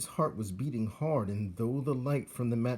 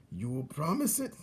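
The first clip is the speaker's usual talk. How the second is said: put-on higher, gloating old rat; old rat Botticelli; 6 semitones higher than usual. Old rat teaches young rat how to torture prisoners, gloating. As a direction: savour each cruel instruction.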